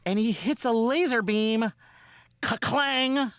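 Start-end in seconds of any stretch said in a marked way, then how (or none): 2.4-3.3 imitated metal clang. Imitates ball hitting metal.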